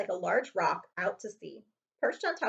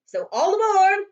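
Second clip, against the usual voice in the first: calling all aboard; 12 semitones higher, 13 dB louder than usual. Acted.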